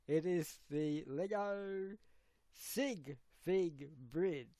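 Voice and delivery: slow, measured mock presenter announcement; host impression. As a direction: announce it word by word like the imitated host. Showing off the imitated host voice.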